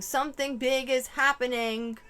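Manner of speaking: a mild mock yell. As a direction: imitate someone calling out, half-hearted. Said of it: "someone yelling".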